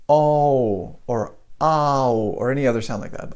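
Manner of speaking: "oh" and "ow" as wrong non-American vowels; wrong vowels demo. Shown as a demonstration. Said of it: "All of those are wrong".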